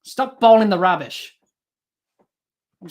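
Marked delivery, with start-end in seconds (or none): 0.0-1.3 frustrated outburst. Real, not acted. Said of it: "I'm frustrated".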